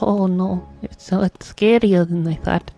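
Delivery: a touch of mock fear at the mansion; mock scared Luigi. Luigi entering the mansion, mild mock fear.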